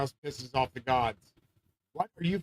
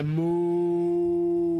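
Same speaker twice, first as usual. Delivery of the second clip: high squeal; 14 semitones higher, 4 dB louder than usual. Pretend. Sudden high far voice.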